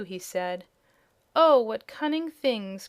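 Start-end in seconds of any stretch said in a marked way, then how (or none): 1.3-2.9 high, louder, slow delighted cry. A narrator's reading. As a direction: gush over something cute. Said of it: "cried Dorothy".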